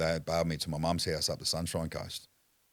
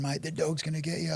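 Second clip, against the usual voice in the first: imitating cop warning; 12 semitones higher than usual. Cop warning about the dog.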